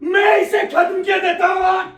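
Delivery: shouted threat; husband vowing to end the pregnancy; angry shout. Acted. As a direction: roar it as a final verdict. Husband threatening to kill baby.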